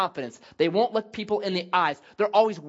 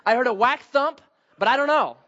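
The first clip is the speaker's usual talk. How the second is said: mock testimony; 4 semitones higher, 4 dB louder than usual. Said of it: "So, so it was just".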